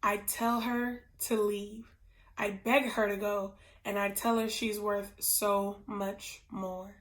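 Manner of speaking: soft, subdued, halting answer; retold tearful reply. Ryle answering as he cries, understated and sorrowful. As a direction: quietly give in, lightly acting his grief. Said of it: "as he's crying".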